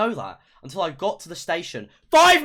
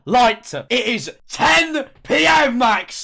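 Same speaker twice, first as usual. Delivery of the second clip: mock scolding mum; 4 semitones higher, 6 dB louder, much slower than usual. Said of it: "mum scolding Max".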